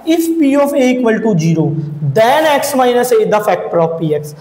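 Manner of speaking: the statement read word by word; measured dictating pace; slow dictation. Shown as a demonstration. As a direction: read it slowly for students to copy. Reading the converse statement aloud.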